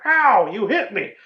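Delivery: high, loud, hurt whine; mock whiny Jack. Mocking Jack whining to Wendy about the bat, hammed-up hurt whine. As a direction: whimper it like a big baby who got bonked.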